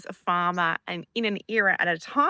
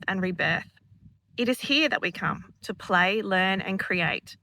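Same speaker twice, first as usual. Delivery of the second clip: poem reading. Acted. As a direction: read it like a sacred verse. Reads a channeled poem aloud.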